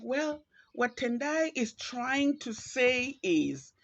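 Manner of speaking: slow, high know-it-all rephrasing; patronizing. Retold or imitated. Colleague translating her point, slow patronizing voice. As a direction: talk down while explaining someone else. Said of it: "in a patronizing, condescending".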